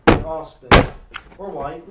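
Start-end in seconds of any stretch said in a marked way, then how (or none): 0.1-0.7 loud declaration. Pretend. Chanting joke line.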